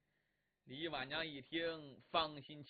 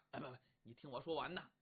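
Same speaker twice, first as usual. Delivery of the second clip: hurried plea; 6 semitones lower, 7 dB quieter, much faster than usual. Acted. Husband hurriedly explains.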